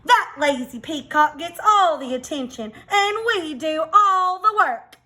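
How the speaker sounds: indignant hen. Acted. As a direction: protest like an overworked hen. Hens complain about peacock.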